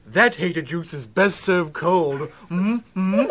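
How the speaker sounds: mock British politician; incongruous British accent, amused at the end; British Parliament accent. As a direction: deliver slang in lightly put-on British. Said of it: "brought to you by members of Parliament".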